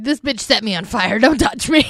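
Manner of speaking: mock indignation, rising on the last words; imitated anger. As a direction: act out his anger, lightly hammed-up. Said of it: "I thought he was mad".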